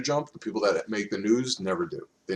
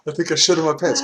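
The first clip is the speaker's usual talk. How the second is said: Italian biker voice; 8 semitones higher, 8 dB louder than usual. Retold or imitated. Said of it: "He spoke broken English".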